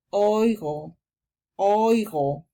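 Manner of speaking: oigo said the German way, like oy-go; German pronunciation. Shown as a demonstration. Teacher demonstrating German oigo. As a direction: say oigo with an oy sound. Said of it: "Y E se pronuncia como una I larga".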